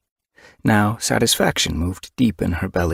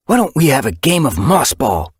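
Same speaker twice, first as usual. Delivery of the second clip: calling out; 8 semitones higher, 5 dB louder than usual. A narrator's reading. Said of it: "he called".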